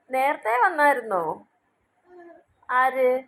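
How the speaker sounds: put-on sing-song questions to a babbling baby; baby talk. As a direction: coo along as if following a baby's story.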